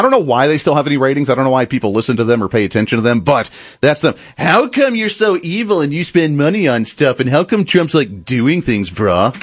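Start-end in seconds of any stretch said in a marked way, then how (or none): 4.4-9.3 whiny, mocking parody of a snarky host; mock the host's petty outrage; mocking whiny question. Pundit parodying the hosts' snarky question, mocking. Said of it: "just the bickering hens".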